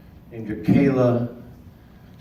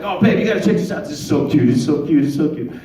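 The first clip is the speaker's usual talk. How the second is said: gushing mom; 2 semitones higher, 4 dB louder than usual. Retold or imitated. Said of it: "Her mother comes home and is like".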